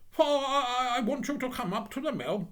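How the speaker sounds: high, loud, self-important demand; bossy, hearty miller. Acted. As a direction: order a chore as if it were a favour. Miller gives Hans orders.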